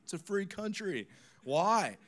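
high, drawn-out mock protest; cheeky kids. Punk kids having a ball making pastor mad, cheeky protest. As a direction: goad him like a cheeky kid.

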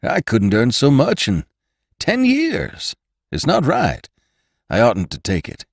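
high, loud, overwhelmed refusal; flustered protest. A narrator's reading. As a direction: protest in a rush of feeling. Rider overwhelmed by gift.

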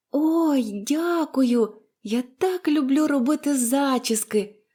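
put-on high, joyful girlish thanks; delighted. A narrator's reading. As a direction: burst out with glee like a child. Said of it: "зраділа Поліанна". (радісний дитячий вигук)

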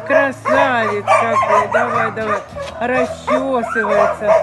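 slow, fond praise for a pet; talking to a dog. Real, not acted. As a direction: coo slowly at the dog.

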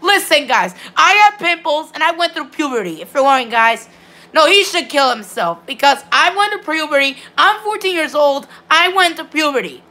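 really offended, insistent denial; indignant protest. Real, not acted. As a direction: protest the insult, pitch jumping up. Defends himself against squeaky kid insult.

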